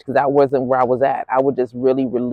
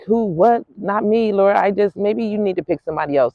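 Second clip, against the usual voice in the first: startled protest; 5 semitones higher than usual. Retold or imitated. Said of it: "I'm like".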